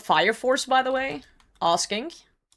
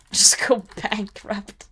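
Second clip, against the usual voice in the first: whisper; slower than usual. Pretend. Snide aside after guard bit.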